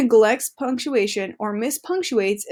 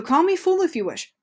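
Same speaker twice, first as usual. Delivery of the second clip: higher, addressing someone; 6 semitones higher than usual. Shown as a demonstration. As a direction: call me pitched up, then fool as the name being spoken to. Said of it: "Say Miss Lloyd silly".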